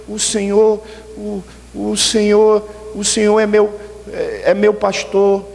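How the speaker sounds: halting, hesitant recital with stumbles; a shy child losing her words at the microphone; stammering, slow and unsure; nervous stammer. Acted. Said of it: "ela pegou e tremia".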